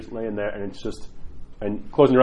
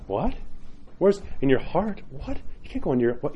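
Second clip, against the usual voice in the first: baffled outsider; 3 semitones higher, 3 dB quieter than usual. Acted. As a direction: act out someone who can't believe it. Voices a baffled outsider's reaction.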